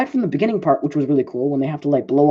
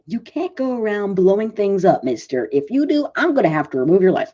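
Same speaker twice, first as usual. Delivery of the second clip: scolding mom; 4 semitones higher than usual. Retold or imitated. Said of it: "a typical mom slap".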